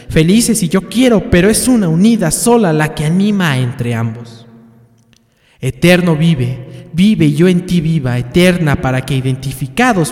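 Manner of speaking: poem recitation. Acted. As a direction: proclaim the love poem with ceremony.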